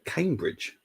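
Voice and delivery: high, disbelieving exclamation; pitched right up in shock; disbelief. Real, not acted. Streamer reacting to Gary Monk at Cambridge, high disbelief.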